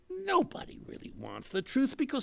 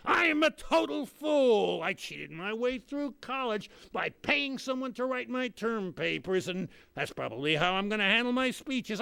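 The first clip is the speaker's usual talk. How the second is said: shouted confession; 5 semitones higher than usual. Retold or imitated. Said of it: "They'd be saying".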